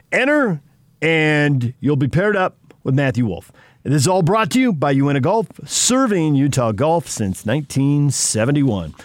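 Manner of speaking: upbeat announcer sign-off; radio promo read. Acted. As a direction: sell it like a radio host. Radio host reads promo and outro.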